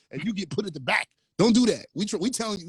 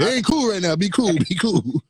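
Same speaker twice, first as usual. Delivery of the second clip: louder, raised quoting voice; retold plea for cool; 6 dB louder than usual. Guest's friend quoted telling him be cool, loud mock urging.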